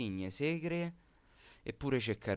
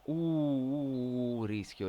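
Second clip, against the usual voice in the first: alarmed; 4 semitones higher, 3 dB louder, much slower than usual. Real, not acted. Alarm at offside risk.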